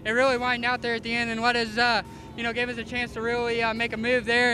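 winded post-race interview; out of breath. Real, not acted. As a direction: talk out of breath after the win. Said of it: "I'm out of breath".

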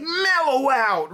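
high, slow stoned mellow out; a rock singer's mellow out. Retold or imitated. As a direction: drawl it like a laid-back rocker. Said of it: "he's like".

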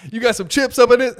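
high, loud goofy dude voice; a hammed-up stoner begging for chips; mock stoner voice. Comedian mocking a stoned guy asking for chips, high and loud.

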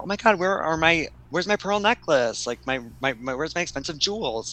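high, frantic mock panic; hammed-up rich lady losing her jewels; freaking out. Guest finding her pearl necklace gone, freaking out. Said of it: "is freaking out".

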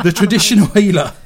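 lively, emphatic radio story reading; story read aloud. Acted. Radio host reads listeners a goblin story, read-aloud voice. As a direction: read the odd news item with relish.

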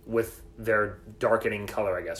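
slowed down, careful explaining. Shown as a demonstration. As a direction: spell it out slowly for a friend. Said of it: "Say it one more time, a little slower".

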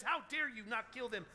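high-pitched indignant rant, acted out; mock-outraged protest, rattled off without a let-up; mad at God. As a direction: play a tantrum of outraged complaint. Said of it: "Jonah gets mad at God and says".

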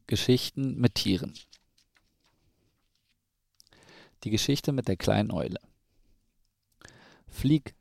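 measured storybook narration with clear pauses; children's story reading. A narrator's reading. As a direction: read a picture book to a small child. Reads a children's story aloud.

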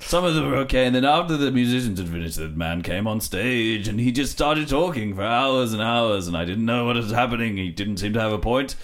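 lightly hammed Victorian storyteller; old-timey raconteur voice; old gramophone. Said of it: "I need to tell a story".

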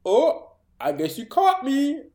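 high, slow, lightly taunting; mock creepy killer. Clown killer caught in the act, slow mock-coy taunt. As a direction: tease the victim, lightly hammed. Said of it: "and he's like".

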